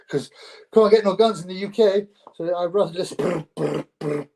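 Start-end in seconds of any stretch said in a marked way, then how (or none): 3.2-4.3 imitated gunfire. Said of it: "Just listen to some gun noises".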